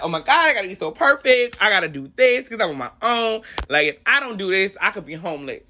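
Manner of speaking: retold anxious panic. Retold panic under pressure.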